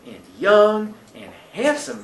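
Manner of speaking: slow, lingering admiration; lightly voiced admiring landlady. Landlady praises past guests to Billy, lightly admiring. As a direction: dwell slowly on each compliment, lightly in character.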